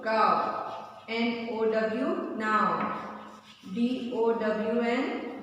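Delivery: slow spelled letters, then the ow word. Shown as a demonstration. Teacher drills ow words, spelling them slowly for the class. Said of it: "now we'll see the O sounds".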